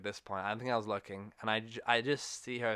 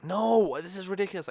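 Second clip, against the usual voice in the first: put-on high, louder whining kid; mock-indignant kid whine, pitched up; whiny protest; 8 semitones higher, 6 dB louder than usual. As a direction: imitate a child's indignant whine. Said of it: "And I was like".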